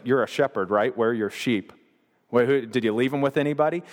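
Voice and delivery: lightly mocking older-brother jibe. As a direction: needle him with casual, condescending questions. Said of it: "he was kinda mocking him there".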